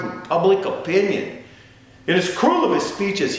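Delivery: high-pitched, ringing oratory; impassioned warning. Acted. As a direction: plead with rising force.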